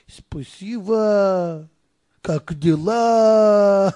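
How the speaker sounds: loud, stretched-out Russian greeting; Russian soldier. Acted. Storyteller mimics soldiers under the bridge, Russian soldier voice. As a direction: draw out the Russian words, loudly.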